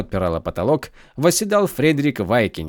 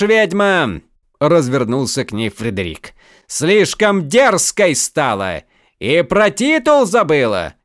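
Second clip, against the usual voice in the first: loud, higher, haughty shout; arrogant fury; 6 semitones higher, 5 dB louder than usual. Acted. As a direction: put her in her place. Count turns on the sorceress.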